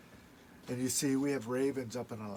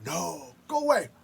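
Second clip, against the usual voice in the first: spirits shooing Raven; 8 semitones higher, 7 dB louder than usual. Acted. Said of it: "those people said".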